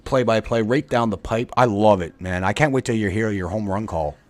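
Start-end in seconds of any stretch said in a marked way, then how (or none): 0.1-1.5 hyped announcer. Acted. Mock announcer hyping friend's call.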